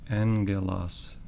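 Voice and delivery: "angelos" said slowly with N before hard G; slow demo of "angelos" with a nasal N before the G; N-sound gamma. Shown as a demonstration. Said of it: "it'll take an N sound".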